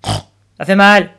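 drawn-out, slow complaint of a pig; pig's pained yell. A narrator's reading. Piggy bank shaken for its coins, pained yell. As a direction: protest in pain, stretching it out. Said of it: "hurla le cochon".

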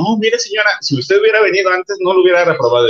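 high, prim schoolteacher tone; scolding teacher voice. Retold or imitated. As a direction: play the teacher telling off the mother. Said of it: "la maestra me dijo".

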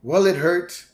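high, loud spaced-out dude voice; a cheerful burnout oversharing; stoner bus driver. Retold or imitated. Otto voiced in retold scene.

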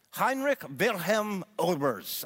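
attempted German accent, slowly. Shown as a demonstration. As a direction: give the name your best German pronunciation. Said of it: "say it in my best German accent".

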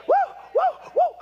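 high, loud whooping cry; joyful high woo; preacher's whoop. Real, not acted. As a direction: whoop it out in a fiery sermon. Preacher hollering mid-sermon.

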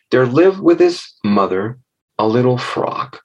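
put-on measured children's storyteller; storytelling. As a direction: set the scene like a fable, lingering on key words.

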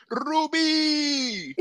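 mock yell. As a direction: call out across a room, hammed up. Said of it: "Fernando yells at her".

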